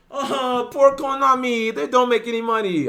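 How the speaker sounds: high, mocking Asian accent; put-on Asian accent. Streamer mocking defenders of a rich game company, put-on Asian accent. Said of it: "put on a little Asian accent".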